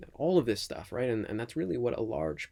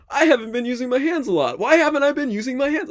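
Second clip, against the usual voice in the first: high, loud mock alarm; exaggerated self-quote; 14 dB louder than usual. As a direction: overplay the sudden panic. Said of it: "It's like".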